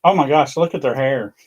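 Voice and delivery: mock catty remark. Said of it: "instead of being mean and saying".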